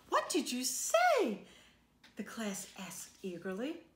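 lively storybook read-aloud for a class; reading to children. A narrator's reading. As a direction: read it like a picture book to kids. Teacher reads picture book aloud.

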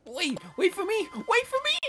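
high, loud call after someone. Real, not acted. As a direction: yell for them to wait up. Calling after partner in game.

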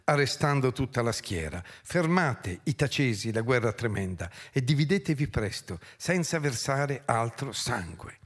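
dramatic verse recital, surging and settling; theatrical poetry reading with stretched phrase endings; declaimed epic narration. A narrator's reading. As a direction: declaim the battle as ancient epic. Reads epic battle finale aloud.

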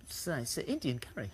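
soft unvoiced whisper. Real, not acted. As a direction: whisper the correction aside. Whispers the answer.

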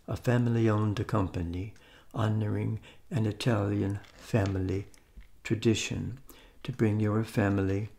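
playful mock Italian accent; fake Italian accent. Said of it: "Let's do the fake Italian thing".

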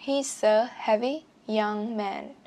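slow model reading with "He's a" joined; linked sounds. Shown as a demonstration. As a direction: link "He's a", then give each word slowly. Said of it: "nối âm luôn". (đọc chậm, nối âm "He's a")

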